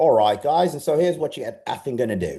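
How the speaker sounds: bad, fake, put-on Australian accent. Retelling a man from australia addressing a room, bad australian accent. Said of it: "I'll give you my really bad Australian accent".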